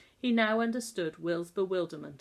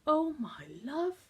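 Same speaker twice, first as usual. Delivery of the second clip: pitying gasp; 9 semitones higher than usual. Acted. Shocked at boy's state.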